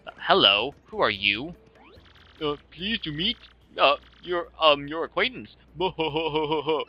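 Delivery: halting, hesitant put-on voice; awkward stranger. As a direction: stumble through the introduction, ending in a stagey chuckle.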